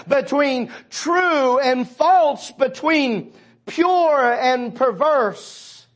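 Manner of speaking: slow, deliberate lines with pauses; slow, measured. Acted. Preacher listing the lines between right and wrong, slow and deliberate. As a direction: lay out each contrast slowly, like steps.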